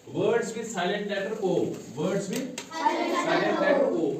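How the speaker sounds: heading read very slowly; slow dictation. Shown as a demonstration. Teacher dictating the new heading slowly to the class. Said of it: "उसके बाद".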